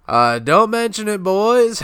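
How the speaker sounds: hammed-up greedy boss seeing them off; smug Krabs. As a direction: fake warmth over a sneer. Krabs mocking departing customers.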